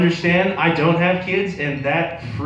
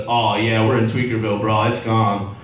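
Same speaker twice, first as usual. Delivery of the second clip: a hint of a laid-back dude; 5 semitones lower than usual. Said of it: "And he goes".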